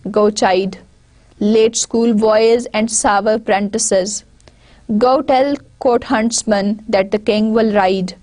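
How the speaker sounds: measured, unhurried verse reading; poem recitation. Acted. Teacher reciting the poem to students, measured recitation. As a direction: recite each line with pauses between phrases.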